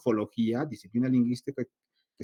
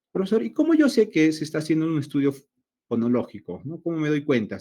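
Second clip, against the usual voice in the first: playing a curious student, higher; mock student question; 4 semitones higher, 4 dB louder than usual. Teacher voicing a student asking the professor, higher pitch. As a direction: asks as an imagined student.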